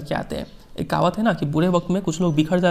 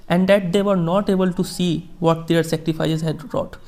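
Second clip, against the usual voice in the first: slow, measured reading of a famous speech; formal speech reading; much slower than usual. Acted. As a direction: read each phrase slowly, like quoting a statesman. Teacher reads Mandela speech slowly. (धीमा, गंभीर भाषण पाठ)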